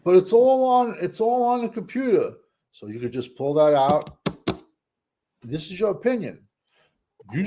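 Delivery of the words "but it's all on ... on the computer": excited insistence. Real, not acted. Excited insistence, high pitch.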